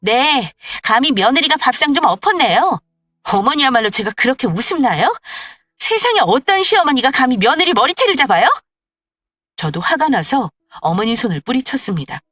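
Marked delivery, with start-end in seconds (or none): 0.0-8.5 louder sarcastic retort; mock her own words back; furious wife fighting back; defiant daughter-in-law. Wife defiant after hair pulling.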